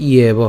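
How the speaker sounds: ইয়েব with a clear i-e glide; y glide before e. Shown as a demonstration. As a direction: say ইয়েব as i-eb, the y sounded. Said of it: "ইয়র মতো হবে".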